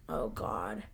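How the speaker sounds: breathy whisper of dread; whispered dismay. Retold or imitated. Viewer whispering her dread at the episode.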